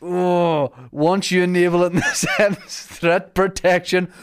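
high, loud, theatrical fury; angry actor. Pretend. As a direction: bellow the ad like a raging prince. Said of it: "Why so angry?".

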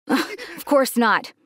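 small fake laugh, then a slow denial; forced smile. Dad denies to his daughter that he works here, forced smile. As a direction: brush it off through a forced smile. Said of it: "My dad forced a smile".

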